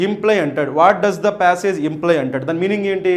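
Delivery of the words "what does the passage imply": slow, careful reading of English question. Shown as a demonstration. Teacher reads the question slowly to the class. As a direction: read each word out slowly for students.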